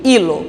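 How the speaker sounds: "hilo" opening straight on I, silent H; I sound. Shown as a demonstration. Teacher repeating the example for students, "hilo" said as ee-lo. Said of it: "ele tem um som de I".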